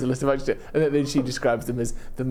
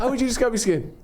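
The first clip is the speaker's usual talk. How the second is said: mock toddler asking, pitched up; 9 semitones higher, faster than usual. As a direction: ask it like a little child, sing-song. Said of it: "like a toddler would say".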